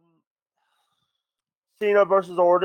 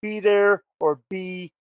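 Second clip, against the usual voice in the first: wrestling promo; 2 semitones higher than usual. Pretend. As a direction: hype it up like a wrestler cutting a promo. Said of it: "I want you to cut the greatest promo".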